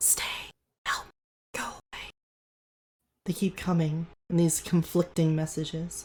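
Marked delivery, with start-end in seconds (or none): 0.0-1.7 whispered, much quieter and higher. A narrator voices the conflicting whispers the players keep hearing, whispering. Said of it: "the the whispers keep coming".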